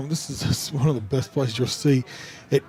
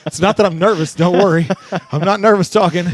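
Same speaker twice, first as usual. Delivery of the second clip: out of breath; 2 semitones higher, 4 dB louder than usual. Real, not acted. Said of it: "Just a little out of breath".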